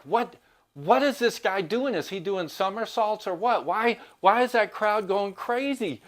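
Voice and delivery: high, incredulous mock outrage at the radio; frustrated disbelief. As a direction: imitate a baffled, annoyed rock star. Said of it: "the singer gets frustrated".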